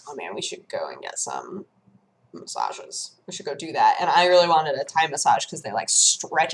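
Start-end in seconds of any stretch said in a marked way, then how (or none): 0.1-4.0 mock wistful sigh. Retold wistful chat.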